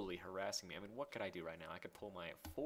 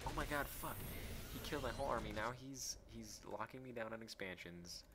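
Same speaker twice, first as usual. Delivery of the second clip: raised-pitch replay of panicking; retold panic; 3 semitones higher than usual. Player retelling the attack on his army, mock panic. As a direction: re-enact the alarm, pitched up at first. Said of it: "I was, like, panic".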